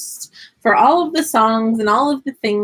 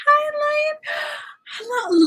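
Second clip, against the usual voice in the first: squeaky puppet greeting; high puppet voice. Pretend. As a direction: greet the class as the little lion.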